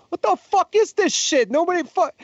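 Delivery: very high-pitched mock French-Canadian rant; outraged French-Canadian, badly imitated; attempted French-Canadian accent. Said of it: "I can't do his accent".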